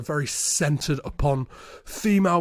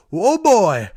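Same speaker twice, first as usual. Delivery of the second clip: higher, louder mock-impressed exclamation; mock amazement; 5 semitones higher, 7 dB louder than usual. Woman reacting to her lover, mock amazement. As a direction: let out a hammed-up impressed whoa.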